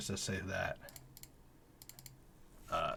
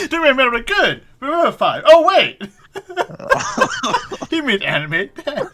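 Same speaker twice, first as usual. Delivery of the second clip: loud, high, helpless laughter through the words; cracking up; 12 semitones higher, 11 dB louder than usual. Real, not acted. Game master cracking up over anime dead, laughing hard. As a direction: barely get the words out for laughing.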